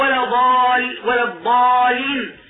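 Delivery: ولا ضال cut short, then ولا الضالين doubled only in one place; shadda misplaced. Shown as a demonstration. Teacher demonstrating a misplaced shadda to students. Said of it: "يشدد في الأولى ويترك التشديد في الثانية".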